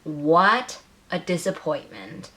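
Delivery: slow, dry, put-on voice of disappointment; a hammed-up verdict of disappointment; mock disappointment. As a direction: drag it out like a theatrical sigh. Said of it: "is where I get to be like".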